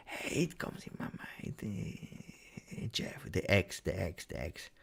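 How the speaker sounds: eerie breathy whisper; haunting whispered thought. Acted. Streamer acts out the X haunting his sleep, whispered. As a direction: whisper it like a nagging voice in the head.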